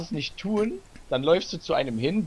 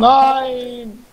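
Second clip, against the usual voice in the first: high shout of protest; loud protest; 10 semitones higher, 7 dB louder than usual. Real, not acted. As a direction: yell no in protest. Protest at ending recording.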